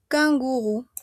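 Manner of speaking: "Canguro" said as kan-gu-RU; French kangourou, each OU a pure U. Shown as a demonstration. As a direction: end "Canguro" on a clear oo. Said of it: "la O más la U es la U".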